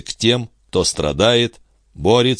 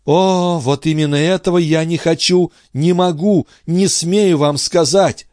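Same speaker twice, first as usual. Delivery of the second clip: a high anguished cry, slowing at the end; Andrée crying out to Charny, higher and anguished; 11 semitones higher, 4 dB louder than usual. A narrator's reading. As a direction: wring it out in desperation. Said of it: "вскричала Андре".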